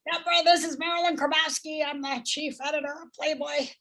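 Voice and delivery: a light take on the chief editor's purr on the phone; a mild imitation of the Playboy editor leaving a message; Marilyn Grabowski. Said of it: "she talks like this".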